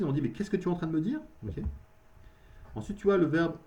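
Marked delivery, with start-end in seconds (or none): 0.2-1.2 quick surprised question. Shown as a demonstration. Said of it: "on a la surprise".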